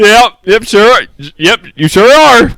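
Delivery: teasing, laughing. Real, not acted. Teasing co-host amid laughter.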